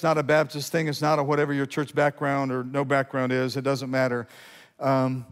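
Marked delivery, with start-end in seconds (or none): none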